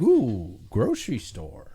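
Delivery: high sing-song calls of shop signs; mother-in-law reading signs aloud, lightly mimicked high calls; mother-in-law calling out. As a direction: mimic her calling out each sign as it passes. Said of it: "She just calls out".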